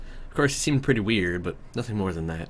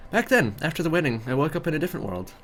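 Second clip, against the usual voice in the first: put-on high, earnest girl's voice, reliving the loss; Zhenya, tearful and relieved; 8 semitones higher than usual. Zhenya to her friend on the bus, high and tearful. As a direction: lift the voice up for Zhenya, close to tears.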